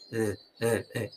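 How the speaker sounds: throat sound demo. Shown as a demonstration. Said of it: "hazte ese sonido con la g-, garganta".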